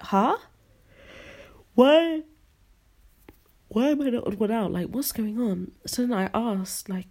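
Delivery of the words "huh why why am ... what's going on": put-on bewildered kid left out; confused surprise. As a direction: sound completely thrown. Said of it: "And I was like".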